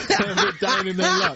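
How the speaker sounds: slow, laughing through the words. Real, not acted. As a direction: get the words out while laughing. Joking about parents' passport.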